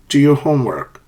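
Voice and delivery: "homework" falls to the end; falling command intonation. Shown as a demonstration. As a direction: give the command with a final drop on "homework". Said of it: "falling intonation".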